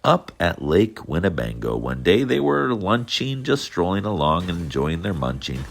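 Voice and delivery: lively storybook read-aloud; reading to children. A narrator's reading. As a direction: read it like bedtime for little kids. Reads Dr. Seuss to children.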